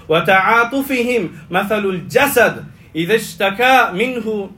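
measured, emphatic Arabic quotation; Arabic hadith recitation. A narrator's reading. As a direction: recite the hadith with weight on key words.

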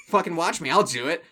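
angry. Retold or imitated. Genie rises to the bait.

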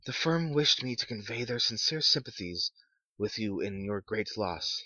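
a hint of a stiff official; formal messenger. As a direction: read it like a polite clerk. Visitor's formal voice.

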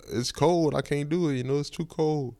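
high, loud, whining protest; loud whiny complaint. Retold or imitated. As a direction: whine it loudly like a stubborn kid. Refusing, complaining about cold.

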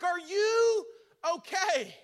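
high, loud worried yell; hollering stepdad. Retold or imitated. Stepdad yells up the tree stand, high panicked holler. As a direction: yell up to him again, panicked. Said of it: "he's hollering".

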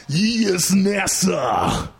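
wrestling promo. Retold or imitated. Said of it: "Should I do wrestling voice or his voice?".

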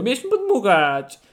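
slow, pouting mock sulk; hammed-up hurt tone. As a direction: imitate his offended whine. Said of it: "obrażonego".

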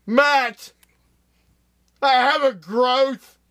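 high, loud, drawn-out cry. Acted. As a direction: project it way up for the scene. Acted scene, retake after "Louder.

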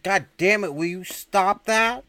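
loud, high-pitched outburst; exasperated yell. Retold or imitated. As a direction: yell at him to cut it out. Desk officer snaps at noisy prisoner.

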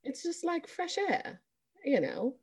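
softly spoken mock British accent; put-on British accent. Host praising the British accent, in a mock British accent. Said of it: "The British accent".

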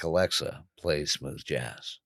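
low, soft, slowing down; chastened request. Retold or imitated. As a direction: ask meekly, dropping pitch and volume. Chastened request after self-scolding.

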